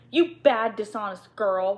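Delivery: loud, sharp rebuke of a servant; scolding. Acted. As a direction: snap the words at the girl. Headmistress scolding the maid.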